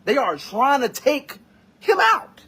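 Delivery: indignant outcry at the news; outraged shout. Real, not acted. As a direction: push the end up in outrage. Outraged at the shooting.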